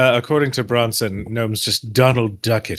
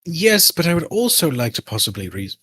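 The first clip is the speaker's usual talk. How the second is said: character voice; 3 semitones higher than usual. Acted. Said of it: "I don't have to do this voice anymore".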